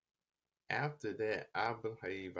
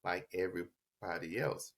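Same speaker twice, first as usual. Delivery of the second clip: mildly upset retold plea, pitched up at the start; higher-voiced mock lament, easing back to normal by the end; upset, frustrated; 5 semitones higher than usual. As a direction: retell an upset kid's complaint, lightly acted. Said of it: "I'm just angry. And I'm like".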